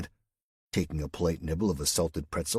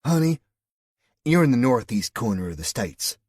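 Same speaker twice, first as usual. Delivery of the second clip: put-on high, loud Southern US accent; 6 semitones higher, 7 dB louder than usual. A narrator's reading. West Virginian woman corrects the Englishman in a loud Southern accent. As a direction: hit the pet name high in a Southern accent. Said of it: "Your accent".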